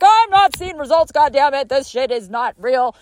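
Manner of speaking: high, whiny complaining voice; whiny impatient client. Retold or imitated. Mimicking clients quitting early, high and whiny. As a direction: huff like someone who wants instant results. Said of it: "'cause they're like".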